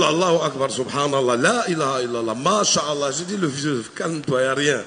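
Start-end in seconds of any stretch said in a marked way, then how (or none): 0.0-3.1 low murmured prayers; praying imam. Retold or imitated. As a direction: mutter prayers low and fast. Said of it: "Il a prié tout le vol". (imam qui prie à voix basse)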